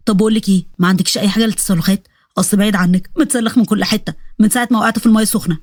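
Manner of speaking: low-voiced jittery soldier, puzzled and scared; low voice of a frightened recruit; nervous soldier. Salah voice again.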